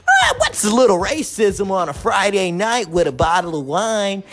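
mock tipsy white person. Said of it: "So if they think".

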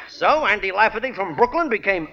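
phony Parisian French accent. Shown as a demonstration. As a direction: switch into a put-on French accent. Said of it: "talking like this with a French accent".

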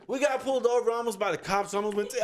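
high, blabbing put-on voice; silly high-voiced tattling; goofy friend impression.

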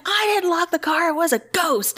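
high mock exasperated retort; arguing husband. Husband blames the ghost, high acted protest. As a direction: imitate a husband protesting innocence in a row.

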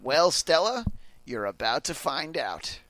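teasing radio host reply; Casey Kasem. Acted. Host replying to letter writer Stella, impression. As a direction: answer as radio host, slowing at the end. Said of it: "I'm Casey Kasem".

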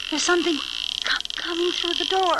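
frightened stammer. Acted.

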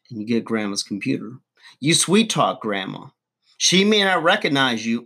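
ordinary delivery

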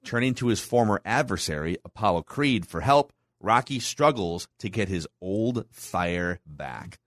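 measured, punchy announcer read with pauses; movie summary read. Acted. Host recapping Rocky three for the co-hosts, announcer-style read. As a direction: read the recap like a dramatic trailer, dropping off at the ends.

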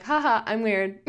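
laughing it off lightly; a giggly shrug at being weird. Retold or imitated. To viewers, owning her weirdness with a laugh. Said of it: "And now I'm like".

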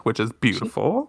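ordinary talk

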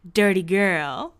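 slow, mock weird-voiced tease; Lauren's weird voice. Friend teasing an unshowered roommate, in a weird voice. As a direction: draw it out in an odd imitation voice. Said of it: "in a really weird voice".

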